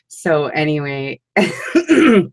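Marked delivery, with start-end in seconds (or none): none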